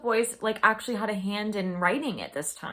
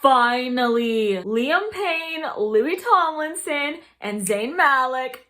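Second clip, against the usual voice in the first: excited; 2 semitones higher, 4 dB louder, slower than usual. Real, not acted. Reads co-writer names thrilled.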